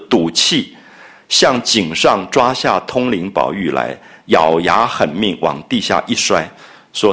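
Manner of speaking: slow, deliberate reading of the classic text; 朗读原文. Acted. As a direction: read it out slowly, line by line. Reads the novel's text aloud. (放慢速度朗读小说原文)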